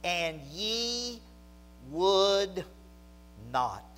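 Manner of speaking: slow, weighty lament with mild frustration; a touch of frustration, words drawn out; frustrated lament. Acted. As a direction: read it as a pained, measured reproach. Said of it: "I can almost hear some frustration".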